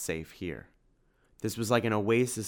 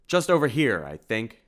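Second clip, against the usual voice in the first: calling out loudly, higher; 3 semitones higher, 7 dB louder than usual. A narrator's reading. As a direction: call out across the street. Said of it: "called Simon".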